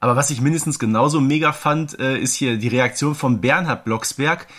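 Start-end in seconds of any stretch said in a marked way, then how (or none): none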